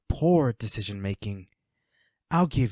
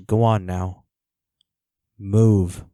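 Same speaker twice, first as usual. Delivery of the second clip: louder barked order to move; sharp command; 3 semitones lower, 7 dB louder, slower than usual. Acted. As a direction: snap the order out, impatient. Villain orders captive to leave.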